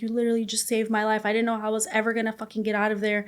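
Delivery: usual speaking voice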